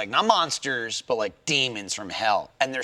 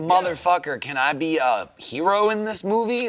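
mildly indignant, higher and louder mock complaint; indignant Idris Elba; 6 semitones higher, 3 dB louder than usual. Actor demanding to be the hero, mock indignant. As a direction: play an actor demanding a better part.

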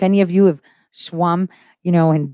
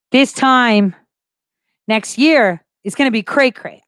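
quoting her tweet; 5 semitones higher than usual. Retold or imitated. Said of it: "I tweeted out".

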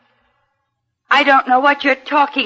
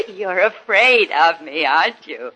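sinister taunt; 7 semitones lower, 3 dB quieter than usual. Acted. Amy taunts the detective.

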